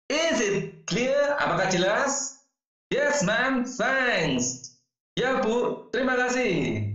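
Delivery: acted dialogue. Acted teacher-student exchange.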